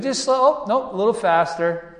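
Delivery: high, put-on voice, playfully bossy; teasing Mordecai. Mordecai teasing Haman from the horse, high mock voice. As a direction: tease the man leading your horse. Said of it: "Mordecai being like".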